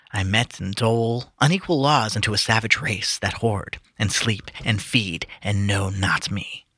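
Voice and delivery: slow, measured recitation; poem reading. Acted. Reading Tennyson to friends, earnest recitation. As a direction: read it with gravity, lingering. Reads Ulysses aloud.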